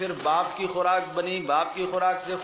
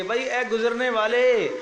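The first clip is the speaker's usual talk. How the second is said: calling out; 5 semitones higher, 4 dB louder than usual. Acted. Crier calls out to passer-by.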